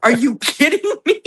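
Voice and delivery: high, loud, laughing through it; mock outrage dissolving into laughter; laughing disbelief. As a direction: break up mid-question. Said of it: "and I went".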